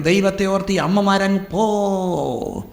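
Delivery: lightly acted teacher, long drawn-out "പോ"; pleading teacher. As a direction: shoo the mothers away with drawn-out pleas. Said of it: "teacher വന്ന് പറയും".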